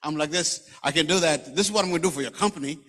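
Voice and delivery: fast, pushy American interviewee; American accent. Retold or imitated. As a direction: imitate an American selling himself in an interview. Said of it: "with the accent of his".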